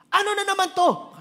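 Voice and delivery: loud, high scolding at the waiter; dad loudly lecturing the waiter about wine; father shouting at waiter. Retold or imitated. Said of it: "Ba't niya sinisigawan?".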